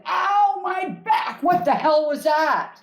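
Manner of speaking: hammed-up ow, my back; sudden pain. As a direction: jolt into it like a sudden back twinge. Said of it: "If somebody suddenly has joy".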